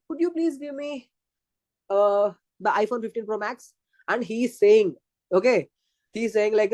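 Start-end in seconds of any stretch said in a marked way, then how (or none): 0.1-3.7 mock pleading girlfriend; whiny girlfriend plea. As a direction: beg like a spoiled girlfriend. Girl pleading for iPhone.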